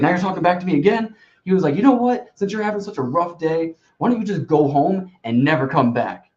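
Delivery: hammed-up furious boss firing the server; imitating angry manager. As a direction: retell the boss blowing up and firing you. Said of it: "like, screaming at me".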